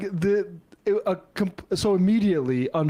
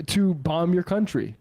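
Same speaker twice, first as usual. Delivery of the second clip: ordinary talk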